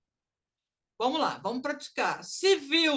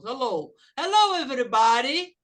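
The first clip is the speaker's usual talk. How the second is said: lively greeting; 5 dB louder than usual. Shown as a demonstration. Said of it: "Se eu falo assim".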